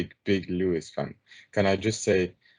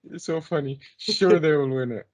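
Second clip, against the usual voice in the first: imitating a scoffing group, high and loud at first; high-pitched mimicry of people cracking up; mock laughter; 8 semitones higher, 5 dB louder than usual. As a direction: put on big ha-has and carry the derision through. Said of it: "they're all like".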